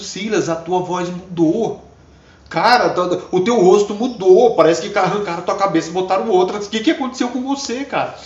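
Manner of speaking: stare in disbelief at the change; astonished girl. Retold or imitated. Girl amazed that Silas's face changed, astonished.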